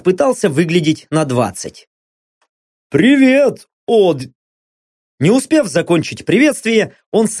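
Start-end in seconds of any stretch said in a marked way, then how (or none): 2.9-4.2 bright raised greeting; a hearty hello; cheery greeting. Acted. Blond man greets the hero.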